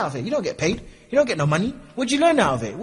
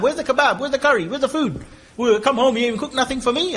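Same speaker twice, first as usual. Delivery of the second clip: higher-pitched mock husband barking for his dinner; demanding husband; 5 semitones higher than usual. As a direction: play a lazy husband demanding food. Husband demanding food from wife.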